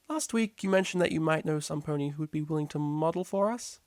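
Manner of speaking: a teacher gently nudging a student; patient high teacher; teacher's voice. A narrator's reading.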